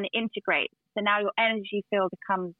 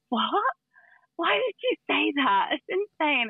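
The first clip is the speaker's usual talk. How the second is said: retold disbelief; 7 semitones higher, slower than usual. Retelling shock at stranger's answer.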